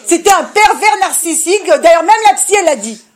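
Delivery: laughing loudly while mocking the phrase; loud and amused, scoffing at the buzzword. (se moque en riant fort du mot à la mode)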